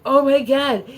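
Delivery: high, loud, drawn-out raving; mock-gush like an overexcited crowd; wowed and breathless with hype, hammed-up; hyped fan gushing. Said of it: "so hyped about how their accents were so good".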